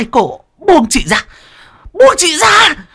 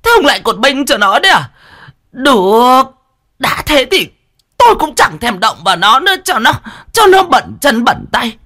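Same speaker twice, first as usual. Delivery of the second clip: high, loud furious shrieking; shrieking rage; 14 semitones higher, 3 dB louder than usual. A narrator's reading. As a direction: lash out at the husband. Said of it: "rít lên".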